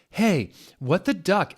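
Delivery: hammed-up indignant yell; angry shout. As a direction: snap at him like he's stolen something. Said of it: "vampire shooted angrily".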